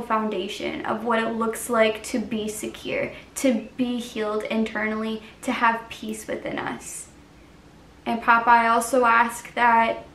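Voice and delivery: hushed, measured intercession; spoken prayer. Real, not acted. Closes the video in spoken prayer.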